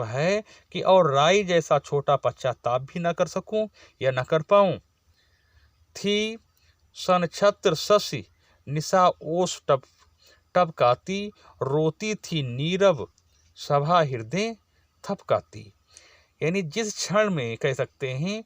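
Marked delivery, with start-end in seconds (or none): 6.0-15.7 slow, lingering verse recitation; poem recital. Shown as a demonstration. Teacher reciting the verse about the weeping night, slow recital. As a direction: let the night image unfold slowly.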